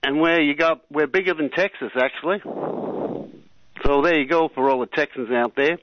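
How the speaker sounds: Australian imitating an American accent; imperfect mock-American accent; attempted American accent. Shown as a demonstration. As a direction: have a rough go at an American accent. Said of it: "an American accent, so he-, here it is".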